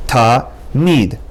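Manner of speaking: "Ta, mid" as two separate beats; ta, mid, syllable by syllable; split into syllables. Shown as a demonstration. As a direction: pause between "Ta" and "mid". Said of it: "You can separate into ta and mid".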